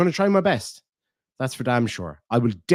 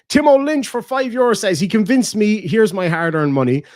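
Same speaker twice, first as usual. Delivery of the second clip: excited shoutout; 7 semitones higher, 7 dB louder than usual. Real, not acted. Reading a donation aloud excitedly.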